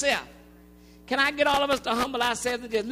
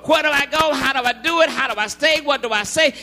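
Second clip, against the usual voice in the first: forceful sermon cadence; preaching; 2 semitones higher, 6 dB louder than usual. Acted.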